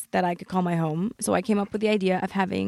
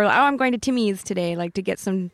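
Canadian accent. Shown as a demonstration. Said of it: "Can you do a Canadian accent?".

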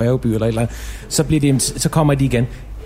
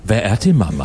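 lightly voiced child's film line in a grown man's deep voice; a hint of cartoon teacup, kept deep; Chip in deep voice. Voice actor redoing his old film line for radio hosts, lightly performed in deep voice. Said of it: "sige det med den dybe stemme".

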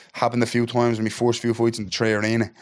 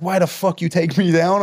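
higher, slower, imitating the opponent's indignant demand; mock the rival's outraged question, drawn out; angry challenge; 6 semitones higher than usual. Imitating the rival demanding why he took him down, indignant and slow.

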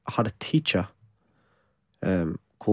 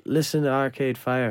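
bad Irish accent; 4 semitones higher than usual. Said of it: "that was my awful Irish accent".

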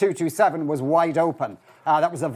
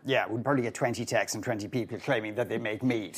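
laughing; 7 semitones lower, 8 dB quieter than usual. Real, not acted. Joking about mead makers texting.

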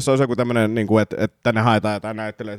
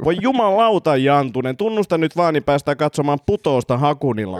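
exasperated, raised-pitch interrogator; kuulustelija, ärtynyt; 5 semitones higher than usual. Acted. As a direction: urge the suspect to just confess. (ärtynyt kuulustelija)

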